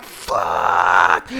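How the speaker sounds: low, loud drawn-out shout; long horrified yell. Acted. Hero facing the ultimate power, long low bellow. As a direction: bellow it slowly in mock dread.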